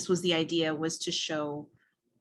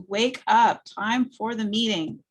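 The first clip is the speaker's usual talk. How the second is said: raised, higher voice banging on a door; calling through door; 4 semitones higher, 5 dB louder, slower than usual. Acted. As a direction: call him awake through the door, firm. Sister wakes brother through door.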